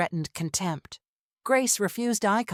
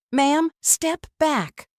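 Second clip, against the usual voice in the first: high, slow, loud command; officer shout; 9 semitones higher, 6 dB louder, slower than usual. Acted. Officer spinning toward the wife, shouting her back. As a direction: stop her cold with the order.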